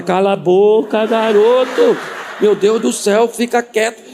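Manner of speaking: hammed-up parental scolding; exasperated parent. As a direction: shut a chatterbox child up, mock-exasperated. Exasperated parent silencing child.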